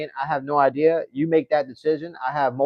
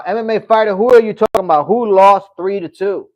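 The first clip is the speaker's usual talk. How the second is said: confused retort; 6 semitones higher, 8 dB louder than usual. Real, not acted. Confused by chat message.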